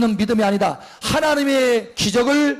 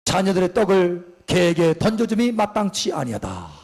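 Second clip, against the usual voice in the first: stern Jesus. Retold or imitated. Voicing Jesus' stern reply.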